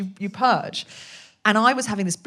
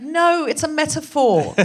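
higher and louder, slow and grand; Mother Ayahuasca's voice; 9 semitones higher, 6 dB louder, slower than usual. Retold or imitated. Comic voicing a goddess correcting her, raised and slow. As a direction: speak as a solemn earth goddess. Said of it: "in that voice".

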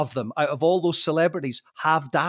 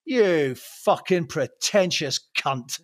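slow, drawn-out mock contempt; retold sudden insult; much slower than usual. Storyteller re-enacts turning on a celebrity, slow retold contempt. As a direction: spell out the insult slowly, word by word. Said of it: "a switch flicked and I went".

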